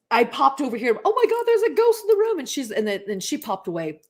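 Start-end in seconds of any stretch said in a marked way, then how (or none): 1.0-2.4 high, loud reenacted panic; retold alarm. Telling listeners about the ghost popping up, retold alarm. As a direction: act out the startled alarm, pitched way up. Retelling her ghost scare.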